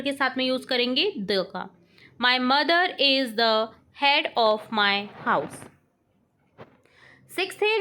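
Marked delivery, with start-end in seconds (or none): 2.2-5.6 very slow, word by word dictation. Shown as a demonstration. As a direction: read it out slowly for the class to write. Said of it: "teacher dictates sentence". (धीमे-धीमे बोलकर लिखवाना)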